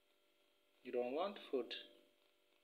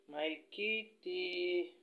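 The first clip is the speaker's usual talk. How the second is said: cooing to cat; 5 semitones higher, much slower than usual. Real, not acted.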